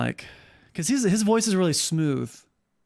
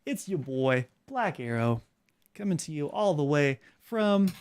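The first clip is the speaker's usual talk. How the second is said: Black Arrow; 4 dB quieter than usual. Shown as a demonstration. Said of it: "guarantee that's what he says".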